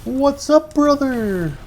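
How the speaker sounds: loud, high shouted greeting; hollering. Pretend. Gamer hailing an imaginary buddy, loud high holler. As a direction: holler it with a big falling tail. Calls out catchphrase loudly.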